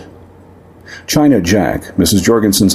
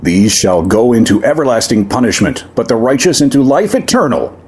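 preacher's voice booming over a crowd, pitched up; blasting scripture; 5 semitones higher than usual. Acted. Sheriff quotes scripture at the demon, mild mock booming preach. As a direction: hurl the verse like a weapon. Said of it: "a voice blasted over the crowd".

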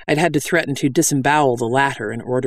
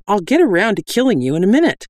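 quick, higher-pitched breezy promise; amiable; 7 semitones higher, 4 dB louder, faster than usual. A narrator's reading. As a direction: toss it down casually, quickly. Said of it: "Lomo called down amiably".

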